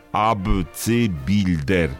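abcybilder said slowly, syllable by syllable; slow careful repeat. Shown as a demonstration. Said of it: "Powtórzę".

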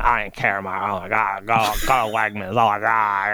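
a hint of Lumpy Space Princess whining; Valley Girl impression. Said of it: "Lumpy Space Princess meets a Valley Girl".

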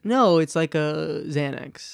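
slow, slightly slurred words; slurring words. Real, not acted. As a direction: let the words slur a little, slowly. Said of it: "But you're slurring your words".

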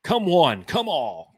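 loud herald call; town crier. Acted. Podcast opening in crier style.

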